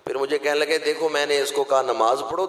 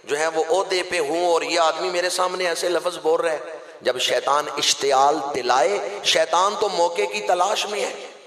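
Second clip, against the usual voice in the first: ordinary talk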